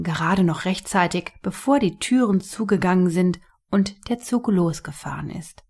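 lively storybook narration; story narration. A narrator's reading. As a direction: read the story aloud to children. Reads the story aloud.

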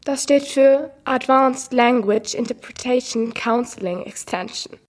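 lightly voiced AI woman with stilted stress; a hint of a computer lady, odd emphasis; mild synthetic female assistant voice; unnatural woman's voice. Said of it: "Ihre Betonung ist genauso unnatürlich".

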